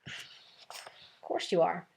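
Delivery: barely voiced, slow and hushed. A narrator's reading. Reassuring a tearful classmate in a slow whisper. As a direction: breathe it gently to the upset girl. Gentle reply to upset girl.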